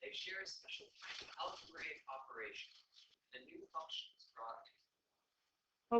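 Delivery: grand, dramatic stage reading; theatrical voice. Acted. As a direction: read it like a hammy stage actor. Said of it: "in your most theatrical voice".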